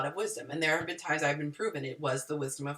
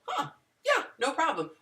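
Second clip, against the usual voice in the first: light mother reply; 10 semitones higher than usual. Acted. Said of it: "And I could say".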